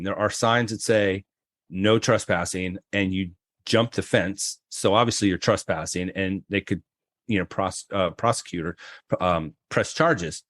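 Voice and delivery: a hint of a stern officer explaining; cop voice.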